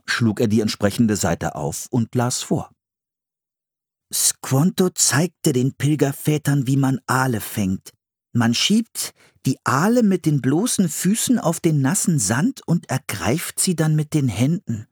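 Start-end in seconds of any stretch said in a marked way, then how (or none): 4.1-14.9 put-on higher-pitched boy reading from a book; Philipp reading aloud. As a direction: read it out as the young brother.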